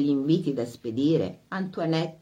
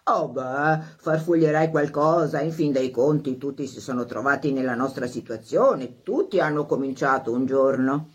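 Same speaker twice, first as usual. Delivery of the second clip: lower husband voice; 4 semitones lower than usual. Acted. Husband reassures wife.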